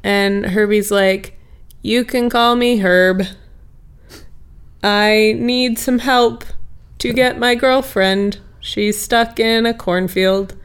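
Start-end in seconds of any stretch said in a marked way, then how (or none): 1.8-10.5 lightly folksy, slow and easy; a hint of a folksy talking car. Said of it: "It's very folksy of him".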